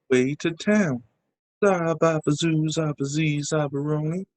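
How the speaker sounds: lightly scatted jazz talk; jazz fly scat. Acted. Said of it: "the way the jazz fly talked".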